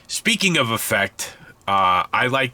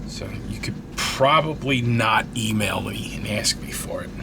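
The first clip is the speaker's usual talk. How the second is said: whispered joke. Real, not acted. Joking aside to viewers.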